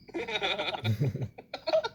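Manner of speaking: a loose, open laugh at his own joke; real laugh. Real, not acted. Host laughs at his own jab at the plagiarist, loose laugh. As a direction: laugh it off freely.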